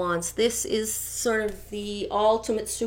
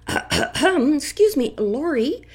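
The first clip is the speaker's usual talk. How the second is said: imitating the trainer; 6 dB louder than usual. Dog trainer calling Lori to demand the dog back, firm and loud. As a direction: lay down the law like the trainer. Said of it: "he phones her up and says".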